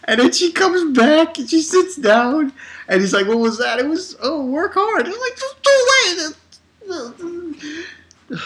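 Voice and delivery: high voice, breaking up with laughter; laughing through words. Real, not acted. Retelling his puzzled reply to the message, cracking up. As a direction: barely get the story out for laughing. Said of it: "I was laughing".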